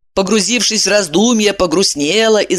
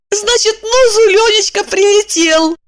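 high, louder happy exclamation; joyful woman; 3 dB louder than usual. A narrator's reading. Evdokia overjoyed her husband has landed, high. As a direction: burst out with relief, pitched high. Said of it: "Евдокия обрадовалась".

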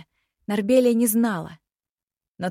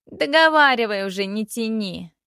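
impatient; 3 semitones higher, 5 dB louder than usual. Acted. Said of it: "не выдержала наследница".

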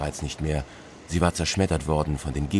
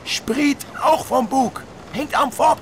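boatswain's answer; much slower than usual. Acted. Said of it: "klang die Antwort".

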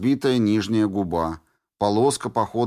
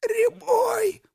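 высоко, сдавленно прохрипеть «Рябой»; задыхаясь, зовёт; хрип. A narrator's reading. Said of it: "прохрипела Флёр". (хрип задушенной Флёр)

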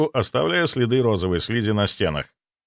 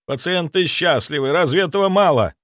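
Zaitsev's voice; 6 semitones higher than usual. A narrator's reading. Zaitsev defends his patients.

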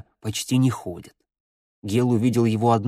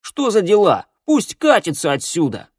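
put-on high-pitched boyish outburst; scornful, raised-pitch complaint; indignant protest; 8 semitones higher, 5 dB louder than usual. A narrator's reading. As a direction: object angrily and send the newcomer packing. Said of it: "фыркнул рыжеволосый парень".

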